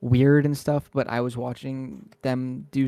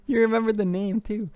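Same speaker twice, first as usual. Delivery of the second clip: laughing; 9 semitones higher, 3 dB louder than usual. Real, not acted. Laughing at old channel name.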